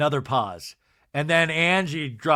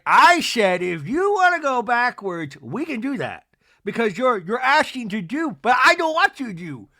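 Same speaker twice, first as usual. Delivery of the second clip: louder, higher mock exasperation; put-on indignant insistence; Meredith impression; 4 semitones higher, 5 dB louder than usual. Mimics Meredith arguing back.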